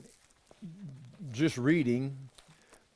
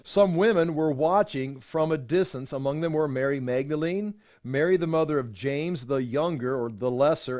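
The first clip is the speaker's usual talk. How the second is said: measured Bible reading to a class; formal scripture reading voice. Acted. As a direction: read the passage steadily and clearly. Reads scripture aloud.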